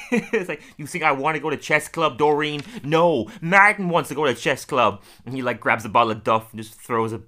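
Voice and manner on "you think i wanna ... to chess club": mock indignation. Acting Martin's heated reply to Doreen.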